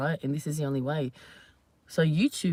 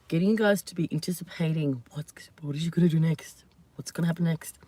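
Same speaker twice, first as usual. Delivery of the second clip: hushed, quick teasing whisper; 3 semitones lower than usual. Acted. Whispering to viewers to build anticipation. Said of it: "you know what I'm doing".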